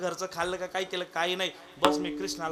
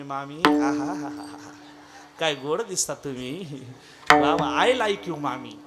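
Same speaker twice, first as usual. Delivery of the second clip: low, laughing tease of the mother-in-law; son-in-law teasing his mother-in-law; 4 semitones lower, 4 dB louder, slower than usual. Acted. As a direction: chuckle and flatter her mockingly.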